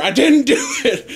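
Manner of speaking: high-pitched mock protest, breaking into laughter; anguished retold wail. Accused kid answering the evidence, in mock anguish. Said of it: "imagine this kid's anguish".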